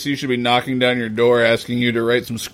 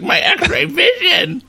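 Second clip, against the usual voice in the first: smug hero; slower than usual. Retold or imitated. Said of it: "It's just like".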